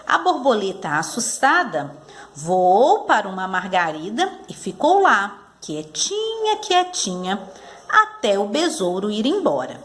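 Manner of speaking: put-on measured storytelling for young pupils; leitura pausada para crianças. Shown as a demonstration. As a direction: read the story carefully, phrase by phrase. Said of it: "A tia vai ler bem devagar". (leitura de história bem pausada, para crianças)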